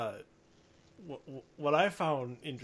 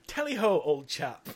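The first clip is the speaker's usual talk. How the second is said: mock British; 3 semitones higher, 4 dB louder than usual. Joking British reply to Lincoln's ghost, mock British. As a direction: toss it out as a hammed-up British gent. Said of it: "it's such a British thing to say".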